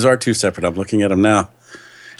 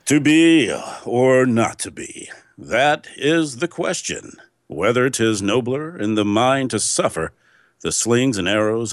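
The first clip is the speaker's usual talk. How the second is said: announcer voice. Shown as a demonstration. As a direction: read Hamlet like a radio announcer, unhurried. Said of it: "let's hear your big announcer voice".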